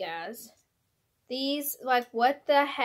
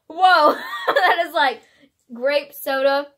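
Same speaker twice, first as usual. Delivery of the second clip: surprised; 4 semitones higher, 8 dB louder, slower than usual. Real, not acted. Surprised by the flavor.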